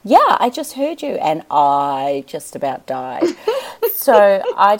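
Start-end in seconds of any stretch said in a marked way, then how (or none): 0.0-1.1 quoting the guru. Retold or imitated. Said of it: "And she said".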